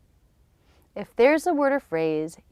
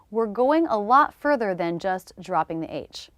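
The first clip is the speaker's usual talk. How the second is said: whisper. Acted. Teacher whispers an aside.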